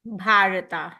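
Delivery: "Bharata" with long aa after Bh; long first a. Shown as a demonstration. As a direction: hold the first vowel of "Bharata". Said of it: "I'm saying it Bharata".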